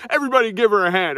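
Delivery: rally the crowd like a showman; egotistical speaker. Retold or imitated. Leading the meeting's applause like an egotistical speaker. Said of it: "egotistical kind of speaker thing".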